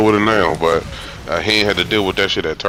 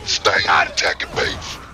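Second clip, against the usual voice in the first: crowd heckler; slower than usual. Retold or imitated. Retelling a fan from the crowd, mock heckler yell. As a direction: mimic a crowd guy yelling. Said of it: "Nigga in the crowd like".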